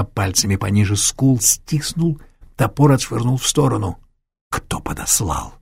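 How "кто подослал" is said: low, slow, unvoiced demand; cold low interrogation. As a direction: hiss the question quietly. Interrogating wounded attacker.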